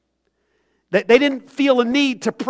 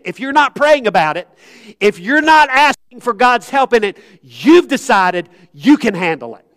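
louder, pressing repeat; louder emphatic restatement of the warning; said again with emphasis; 2 semitones higher, 5 dB louder than usual. Shown as a demonstration. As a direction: drive it home a second time, louder. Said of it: "I'm gonna say that again".

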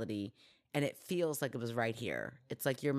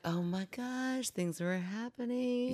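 panicked parent; 9 semitones higher, slower than usual. Retold or imitated.

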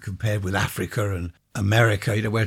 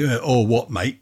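mock common bloke. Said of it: "people that go around saying".

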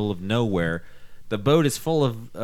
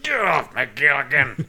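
Skipper quote; 2 semitones higher than usual. Retold or imitated. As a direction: push him off as the gruff Skipper. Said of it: "We're like".

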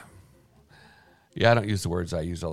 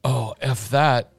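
put-on slow kid's line; 2 semitones higher, 4 dB louder, much slower than usual. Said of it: "It's like when a kid does it".

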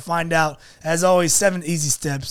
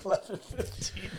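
whispering; 3 semitones higher, 14 dB quieter than usual. Real, not acted. Echoing the time report.

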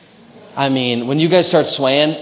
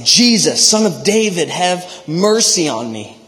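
raised, pleading call for mercy; crying out; 4 semitones higher, 4 dB louder than usual. Acted. Blind man calls to Jesus for mercy, crying out. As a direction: call out higher, a step above reading voice. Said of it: "he began to cry out".

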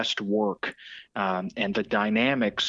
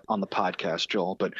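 ordinary talk, nothing marked

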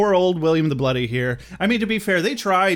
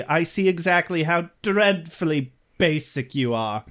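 mock snooty Cecily; 3 semitones higher than usual.

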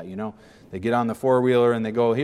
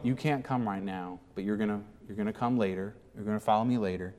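much softer and quicker; Jesus gently declining Peter; gentle; 3 semitones lower, 9 dB quieter than usual. Acted. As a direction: answer Peter quietly and kindly.

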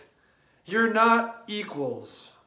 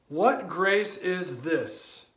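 reverent; much slower than usual. Acted. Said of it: "we ask of Jesus".

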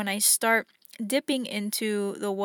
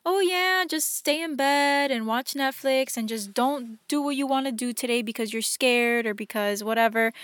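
mock indulgent voice. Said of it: "Sometimes love isn't like".

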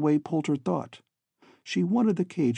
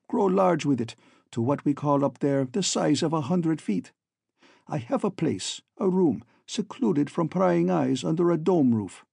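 lightly voiced villain, foreign accent; boastful villain; 2 semitones higher than usual. Villain tells captive how he makes gold, boastful. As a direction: explain the scheme with mild self-satisfaction.

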